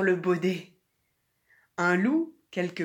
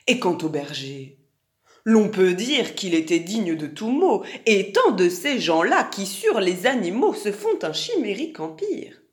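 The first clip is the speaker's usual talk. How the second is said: lightly voiced fawning fox with swooping pitch; a courtier's singsong, lightly put on; flattering fox; 4 dB louder than usual. Fox dismissing the shepherd before the king, fawning.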